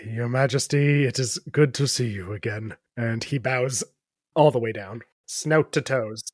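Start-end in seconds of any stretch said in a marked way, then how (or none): 0.1-2.8 a hint of a humbled knight, formal; lightly voiced knight. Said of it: "how you speak to your queen".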